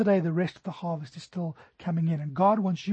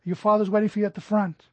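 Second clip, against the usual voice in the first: higher, louder mock announcement over a store loudspeaker; imitated paging announcement, pitched up and projected; store paging call; 3 semitones higher, 4 dB louder than usual. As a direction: call out a lost child's name like a shop announcer. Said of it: "they called him".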